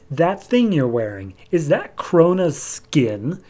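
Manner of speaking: drawn-out, deliberate acted query; slow suspicious question. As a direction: stretch each word as realization dawns. Atrocitus noticing the skin, dawning suspicion.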